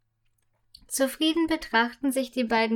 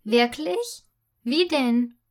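lightly delighted asking; eager to hear more; girl asking her friend gladly; pleased question; slower than usual. Acted. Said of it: "fragt Fia erfreut".

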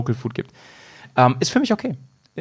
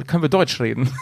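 loud retold question; 2 semitones lower than usual. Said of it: "gesagt haben".

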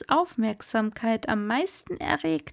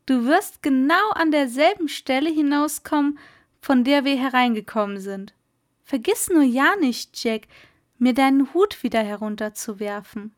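lightly voiced merman, quick and a touch louder; brisk old merman; 2 semitones higher, 4 dB louder, faster than usual. Merman Kumara sending Jack off, brisk and hearty. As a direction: hurry Jack off with cheerful orders.

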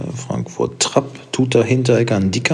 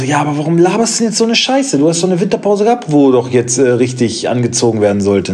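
higher and fast, mock outraged; exasperated inner rant; 5 semitones higher, 3 dB louder than usual. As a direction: rant at the coach in your head. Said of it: "Und ich dachte so".

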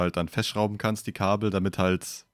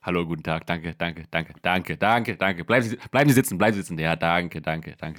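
star receiving applause; 2 semitones lower than usual. Acted. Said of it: "Zu viel Applaus".

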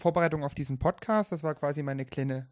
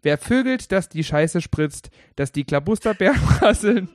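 loud toast, cracking up at the end; rowdy toast that collapses into a laugh; drinking toast; 4 semitones higher, 6 dB louder than usual. Shown as a demonstration. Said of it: "Ich will nochmal diesen Trinkspruch anbringen".

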